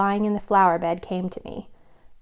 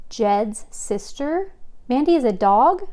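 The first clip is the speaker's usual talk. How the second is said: slow, disbelieving rising echo; dawning surprise, then louder; surprised; 5 semitones higher, 4 dB louder than usual. A narrator's reading. Chloe realises Mandy is dog.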